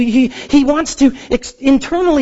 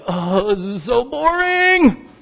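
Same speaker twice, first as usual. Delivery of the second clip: bored; 2 semitones higher, much slower than usual. Retold or imitated. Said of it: "I was like".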